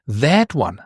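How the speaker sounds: "that" emphasized, as if pointing at it; stress on THAT. Shown as a demonstration. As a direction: punch "that", let "one" fall away. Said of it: "Now you are pointing".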